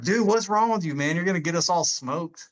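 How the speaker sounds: mock exasperation with a bunkmate; exasperated recruit. Recruits scold the meditating kid.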